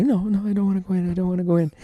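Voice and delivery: mock a reluctant kid's whine; imitating Cynthia refusing. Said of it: "She's like".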